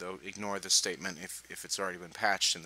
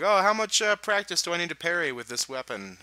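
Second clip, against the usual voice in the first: mock eager newbie; 9 semitones higher, 6 dB louder than usual. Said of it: "They're like".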